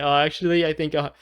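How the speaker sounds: lightly acted sheepish request; sheepish suitor. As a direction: play him awkwardly taking back his gift. Suitor sheepishly asks money back.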